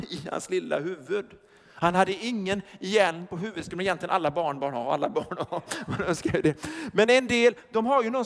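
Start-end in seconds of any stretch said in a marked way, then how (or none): none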